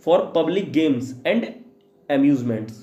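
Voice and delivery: each word spaced out slowly for students to write; a teacher reading a definition aloud to be copied down, slowly; slow dictation. Shown as a demonstration.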